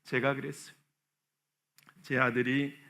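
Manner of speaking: normal talking voice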